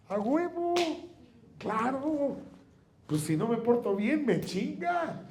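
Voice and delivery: high laughing sarcastic epiphany; excited realization. Retold or imitated. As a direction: blurt it out high and amused. Mocking realization, voice jumps.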